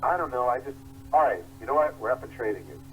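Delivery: paranoid fretting. Retold or imitated. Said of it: "always paranoid".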